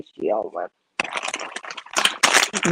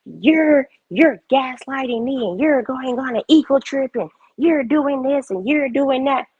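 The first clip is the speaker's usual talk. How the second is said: higher, mock accusing voice; mocking imitation; 5 semitones higher than usual. Streamer mimicking people who always point out faults, mocking. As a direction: mimic a finger-pointer reeling off charges.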